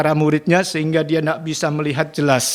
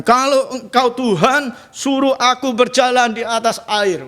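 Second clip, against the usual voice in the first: cocky challenge; 7 semitones higher than usual. Retold or imitated. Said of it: "dia sok jagoan".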